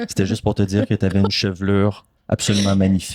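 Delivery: low, level stranger's compliment; mock-normal voice. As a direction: deliver the compliment evenly, pitched low. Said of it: "la voix la plus normale". (voix posée et grave)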